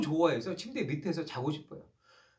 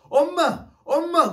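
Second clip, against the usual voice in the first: bambina che grida: no; 8 semitones higher, 6 dB louder, slower than usual. Retold or imitated. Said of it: "소리를 칩니다".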